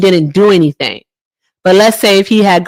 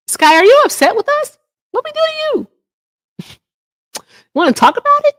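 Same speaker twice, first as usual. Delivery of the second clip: mock concern. Teasing a chatter about hashtag.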